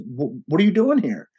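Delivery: a hint of the dad's startled recognition; surprised older man. Voicing his friend's father.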